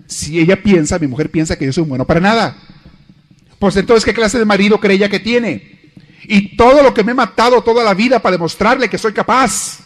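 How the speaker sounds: a wounded husband ranting to himself that he's capable; indignant husband. Retold or imitated. Husband's indignant inner rant.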